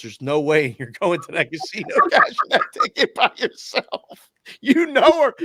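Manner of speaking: hammed-up shrieky protest; indignant mock wife. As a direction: imitate a wife putting her foot down. Wife jumps up objecting.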